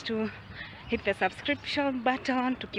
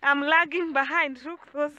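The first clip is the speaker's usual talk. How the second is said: breathless on a hike; winded, puffing while climbing; out of breath; 3 semitones higher than usual. Real, not acted. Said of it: "I'm running out of breath".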